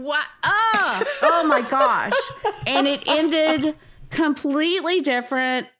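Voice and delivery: laughing exasperation. Real, not acted. To a co-host about the movie ending, laughing in disbelief. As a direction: laugh through the outrage.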